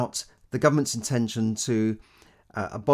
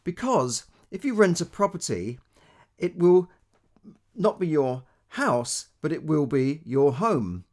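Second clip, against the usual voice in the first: Theresa May quote; 4 semitones higher, 4 dB louder than usual. Retold or imitated. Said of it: "She says".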